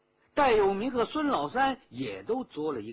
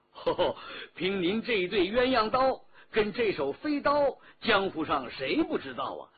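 hearty, admiring flattery; butter her up with emphatic admiration; effusive, emphatic compliment; flattering praise; 4 semitones higher, 4 dB louder than usual. Acted. Escort flatters the woman with praise.

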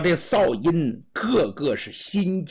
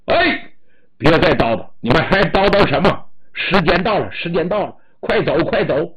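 loud impatient shout to break up the visit; guard yelling to hurry them out; policeman shouting; 6 dB louder, faster than usual. Acted. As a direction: bark at them that time is up. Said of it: "值班的警察就喊".

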